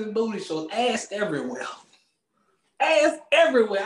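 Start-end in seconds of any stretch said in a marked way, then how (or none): 2.8-3.8 much higher and louder; excited shout. Real, not acted. Host hyped about summer crowds, an excited shout. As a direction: hype it up.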